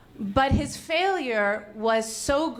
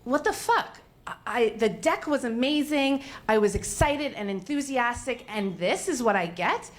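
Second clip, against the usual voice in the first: retold angry outburst; 2 semitones higher than usual. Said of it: "And I was really angry".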